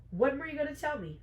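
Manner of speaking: high, fast accusing question; acted indignant confrontation; indignant demand. Betrayed heroine confronts her mate.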